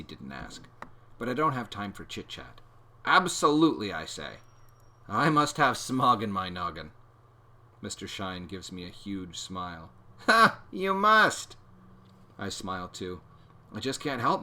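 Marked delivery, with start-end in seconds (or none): 3.0-3.9 eager yes. A narrator's reading. Eager answer to teacher. 10.3-11.6 high, loud burst of laughing delight; booming jolly teacher laugh; hearty laugh. A narrator's reading.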